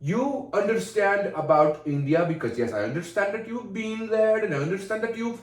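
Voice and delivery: insistent put-on Indian accent. Telling co-host to listen, insistent Indian accent. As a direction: rein him in with an Indian accent. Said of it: "I know how good my Indian is".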